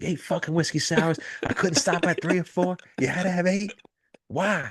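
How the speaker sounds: shrill, raging scream, very high. Recounting DiCaprio losing it, the speaker imitates DiCaprio screaming at himself. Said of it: "He's just screaming at himself".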